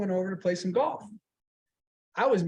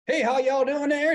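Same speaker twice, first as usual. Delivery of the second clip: lightly imitated Southern greeting, pitched up; Southern accent; 5 semitones higher than usual. Comedian greeting visitors backstage, light Southern accent. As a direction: put on a friendly Southern twang. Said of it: "it was a Southern accent".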